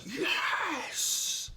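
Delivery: breathy, very high whispered yelp of joy; a giddy squeal without voice; mock overjoyed yes; ecstatic yes. Mock reaction to Nunez scoring.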